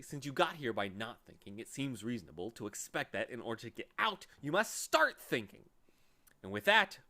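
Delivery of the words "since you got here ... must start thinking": impatient. Acted. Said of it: "continued the watchdog impatiently".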